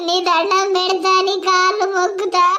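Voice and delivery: wailing, tearful begging; wife weeping and begging him to leave the other woman; sobbing plea. Acted. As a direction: cry out your plea, half-sung in grief. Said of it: "నువ్వు ఇట్లా ఏడుతున్నావు".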